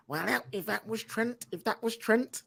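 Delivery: bad Scouse accent. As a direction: put on your worst Scouse accent. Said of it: "that's my worst Scouse accent ever".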